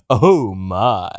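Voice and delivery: deliberate voice with a put-on Japanese accent; mock Japanese accent. Denying it would be racist, mock Japanese accent. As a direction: stay in the hammed-up Japanese accent. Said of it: "really good, uh, Japanese voice there".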